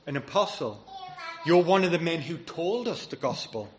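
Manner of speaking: acted incredulous questioning; puzzled objection. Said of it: "read that and you think".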